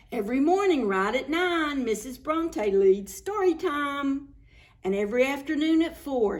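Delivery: lively rhyming storybook read; reading to children. Acted. Reader tells children a rhyming story, lively storybook reading. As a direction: bounce the rhymes for young listeners.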